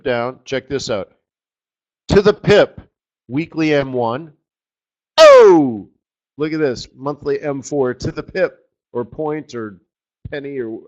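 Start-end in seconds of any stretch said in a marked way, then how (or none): 5.2-5.9 sudden high, loud yelp of delight; a sharp burst of real surprise; surprised oh. Real, not acted. Excited reaction to a price level.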